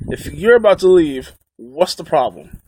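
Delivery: lightly voiced old man, sarcastic; a hint of a snide old man brushing him off. Retelling the old man's reply at the restaurant, mildly sarcastic old man voice. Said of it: "in his sarcastic old man voice".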